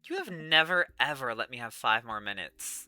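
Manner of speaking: firm refusal, loud at the end; refuse, then punch the final command; exasperated wake-up order. Acted.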